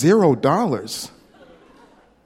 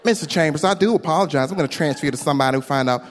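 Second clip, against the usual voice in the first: put-on southern accent; faster than usual. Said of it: "southern accent".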